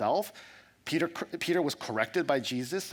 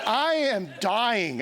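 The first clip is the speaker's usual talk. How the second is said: laughing exasperation; 8 semitones higher, 6 dB louder, much slower than usual. Retold or imitated. Frustrated in Japan, laughing.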